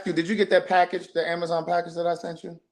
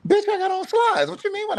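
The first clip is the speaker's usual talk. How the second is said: snapping back, offended; indignant shout. Real, not acted. Shoots back at sister.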